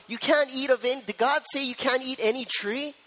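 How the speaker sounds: mock the serpent twisting God's words; restrictive serpent. Pastor voicing the serpent making God restrictive, light mock. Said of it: "He made God sound like".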